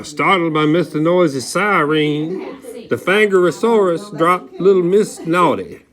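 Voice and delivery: ordinary delivery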